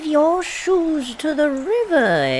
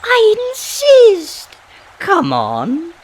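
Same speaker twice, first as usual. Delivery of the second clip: insisting; 7 semitones higher, 8 dB louder than usual. Acted. Old woman insisting girl come.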